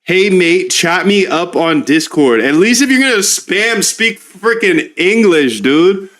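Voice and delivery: a put-on Australian voice mocking the spammer; mock Aussie read. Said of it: "with that Aussie, Aussie talk".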